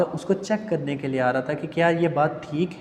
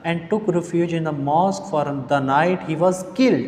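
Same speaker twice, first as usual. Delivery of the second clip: slow, measured reading of a text; story read-aloud; much slower than usual. Acted. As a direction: read it out slowly, phrase by phrase. Reads the English story text aloud. (धीमे, ठहरकर कहानी पढ़ना)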